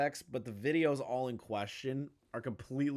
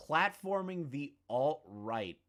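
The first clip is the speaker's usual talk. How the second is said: slow pondering; 3 dB quieter, slower than usual. Real, not acted. Mulls over the clip's phrase.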